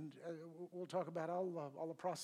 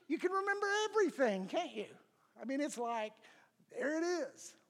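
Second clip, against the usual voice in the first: mock upset outburst; 8 semitones higher, 6 dB louder than usual. Mocking upset partner's recall.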